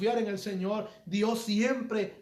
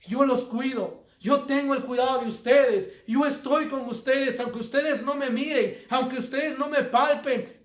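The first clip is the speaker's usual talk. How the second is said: put-on a lightly raised, earnest voice of God speaking to his children; God's voice, retold; 2 semitones higher than usual. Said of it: "Dios habló dentro de mi corazón y me dijo".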